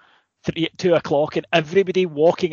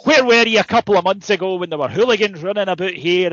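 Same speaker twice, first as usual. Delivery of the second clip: mock outraged rant; 3 semitones higher, 3 dB louder than usual. Friend ranting at police.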